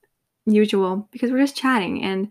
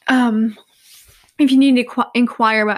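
yawning; 3 semitones higher, 6 dB louder than usual. Real, not acted. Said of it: "I'm gonna yawn again".

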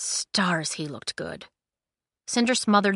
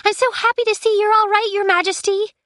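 put-on very high, loud girlish gush; squealed, excited well-wishing; gushing call; 6 dB louder than usual. A narrator's reading. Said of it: "she called to his back".

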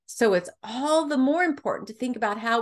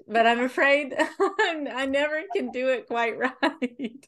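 laughing; 4 semitones higher than usual. Real, not acted. Host laughs at own accent attempts.

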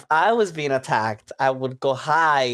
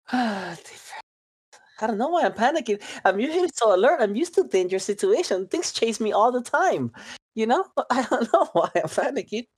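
higher, fretful character voice; nervous character voice; 7 semitones higher than usual. Acted. Panicking protege explains to the party, higher fretful voice.

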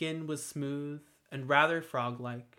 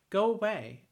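firmer, louder and higher plea; stronger, louder warning; 7 semitones higher, 4 dB louder than usual. A narrator's reading. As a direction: push it out with more strength. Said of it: "a little louder and a little stronger".

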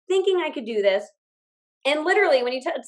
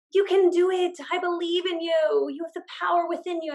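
stage speaker; 6 semitones higher than usual. Retold or imitated. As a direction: play a hint of a pumped-up stage speaker. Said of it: "there'd be someone on stage and they'd say".

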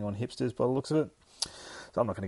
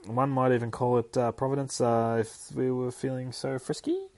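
higher-pitched mock rambling; 5 semitones higher than usual. Tim rambling on to Lily about running into her, awkward ramble. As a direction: act out an awkward, wordy ramble. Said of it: "He's really rambling here".

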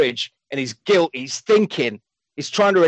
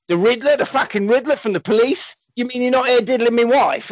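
rising outrage at the name; outraged surprise; 7 semitones higher than usual. Retold or imitated. Gary hearing the Riddler sent Chuck, shocked high voice. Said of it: "And he says".

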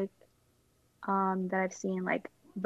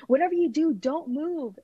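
imitated panicked warning, raised pitch; urgent warning, retold with mild panic; panicking voice; 6 semitones higher, 4 dB louder than usual. Fiancé warning her from the distance about the squirrel, mock panicked. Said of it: "like, panicking in his voice".

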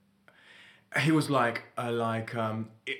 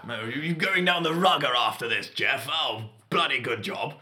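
posh toff; 2 semitones higher than usual. Retold or imitated. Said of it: "continuing the toff impression".

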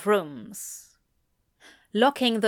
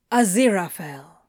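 sharp; 2 semitones lower, 3 dB louder than usual. A narrator's reading. Demon interrupting the angel's offer, somewhat sharply. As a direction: cut in with the name, a touch sharply. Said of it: "Crowley says, more sharply".

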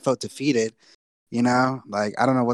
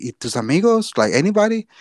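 worried lady voice; 7 semitones higher, 3 dB louder than usual. Retold or imitated. Lady asking about his friends.

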